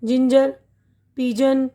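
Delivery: जिंजर and पिजन with a soft English "j", jinjer and pijen; slow teacher's model of जिंजर, पिजन; soft j sound. Shown as a demonstration. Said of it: "यहाँ पे जी की आवाज़ है ना".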